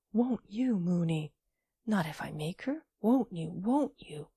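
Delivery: angry. Acted. Old gentleman pressing angrily.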